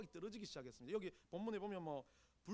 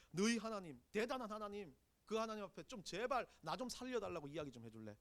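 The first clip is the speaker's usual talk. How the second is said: normal talking voice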